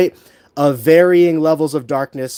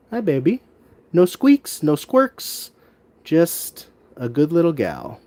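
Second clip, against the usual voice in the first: overwhelmed by cuteness. Real, not acted. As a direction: coo at the little gecko. Cooing to a baby gecko.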